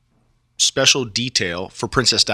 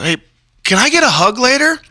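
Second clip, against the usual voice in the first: retold request; 13 semitones higher, 5 dB louder than usual. Speaker's own line retold.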